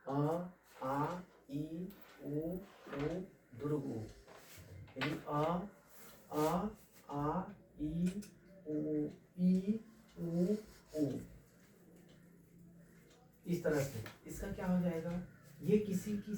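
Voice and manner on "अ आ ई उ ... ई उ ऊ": drawn-out Hindi vowels, one at a time; vowel sounds demonstrated. Shown as a demonstration. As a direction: sound out each vowel for a child. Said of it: "स्वतः उच्चारण क्या होगा? जैसे". (स्वर खींचकर बोलना)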